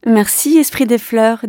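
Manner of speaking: a touch of joy; joyfully. Acted. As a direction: thank the spirit with glad energy. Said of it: "dit-elle joyeusement".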